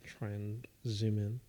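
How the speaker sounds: slow whisper. Real, not acted. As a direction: breathe it quietly. Quietly asking camera zoom.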